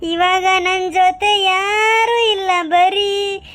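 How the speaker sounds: put-on slow, tearful drunk lament rising into a sing-song wail; crying sing-song self-pity; drunken wailing. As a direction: mourn your life to the bottle. Drunk man weeping over empty bottle.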